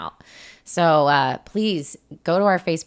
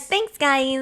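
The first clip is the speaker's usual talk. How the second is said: imitating creepy voice; 7 semitones higher than usual. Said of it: "You're like".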